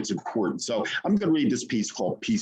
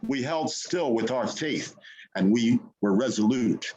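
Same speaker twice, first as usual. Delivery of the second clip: poem reading. Acted. Poet reading Peace Be Still to the open mic, solemn. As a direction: read it like an appeal to the spirit.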